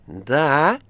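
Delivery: loud, sharp rising question; shouted. A narrator's reading. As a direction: yell into the receiver. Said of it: "крикнул Варенуха". (громкий выкрик с вопросом)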